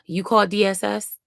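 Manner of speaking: imitating a curt caseworker with attitude. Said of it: "she had a attitude".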